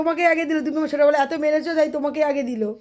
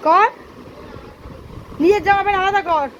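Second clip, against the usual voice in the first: scolding; 4 semitones higher than usual. Real, not acted. Mother scolds crying son over clothes.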